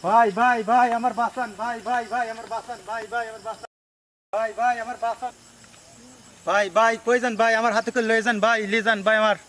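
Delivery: urgent, repeated begging for rescue; desperate pleading. Acted. Frightened man begging a passer-by for rescue, desperate. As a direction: keep calling out, begging not to be left.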